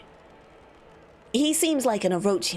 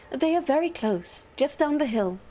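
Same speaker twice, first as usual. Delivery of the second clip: higher, lighter courteous voice; higher-voiced helpful attendant; 4 semitones higher than usual. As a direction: answer politely, pitched up. First take of character's line.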